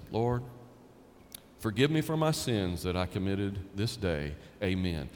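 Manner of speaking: a hint of a quick, low rote prayer. Preacher mocking a generic bedtime prayer, lightly voiced rote prayer. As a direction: mumble it like an empty habit. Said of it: "That will not cut it".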